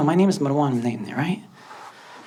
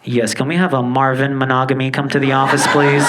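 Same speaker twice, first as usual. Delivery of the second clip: lightly voiced school intercom, louder on "please"; intercom announcement; 5 dB louder than usual. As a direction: make a level office announcement over the intercom. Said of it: "the intercom goes on".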